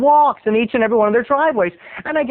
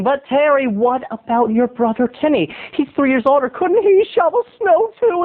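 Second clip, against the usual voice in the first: higher-pitched protesting question; imagined objection; 6 semitones higher than usual. Acted. Listener objecting about brother's shoveling, protesting. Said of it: "I know what you're saying".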